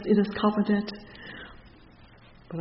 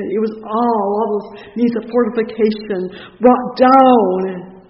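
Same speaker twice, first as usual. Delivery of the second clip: loud, driving pulpit delivery; impassioned preaching; 2 semitones higher, 9 dB louder than usual. Real, not acted. Preacher recounting rejection and broken strongholds, impassioned. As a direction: hammer it home to the congregation.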